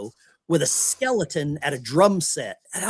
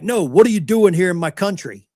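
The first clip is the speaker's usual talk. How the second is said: louder, pressing the question hard; indignant old man; 3 semitones higher, 6 dB louder than usual. Retold or imitated. Old rocker grilling the American about his country, loud and indignant. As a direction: demand it like a territorial old Brit.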